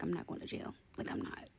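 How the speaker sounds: hushed storytelling whisper. Real, not acted. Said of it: "I'm whispering because my baby's asleep".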